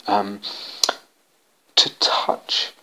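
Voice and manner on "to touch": breathy whisper on to touch; hushed, intimate whisper. Acted. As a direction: drop into a whisper for the word. Whispered intimate word in lecture.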